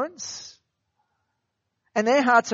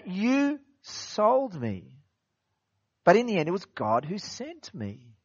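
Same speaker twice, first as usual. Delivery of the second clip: Joseph's words; 4 dB quieter than usual. Retold or imitated. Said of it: "You know".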